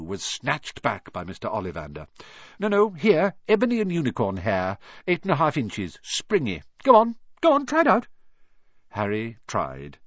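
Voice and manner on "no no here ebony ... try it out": put-on high, agitated old wandmaker; eager shopkeeper pushing for another go; excited urging. A narrator's reading. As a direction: build to a loud, high insistence. Wandmaker rejects, urges another wand.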